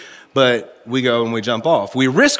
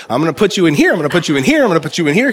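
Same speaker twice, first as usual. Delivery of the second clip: louder, quick repeated eager promise; eager boss; 3 semitones higher, 4 dB louder, much faster than usual. Retold or imitated. Pastor Clay eagerly placing the new preacher, loud and quick. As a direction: rattle it off like an excited mentor. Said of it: "he's like".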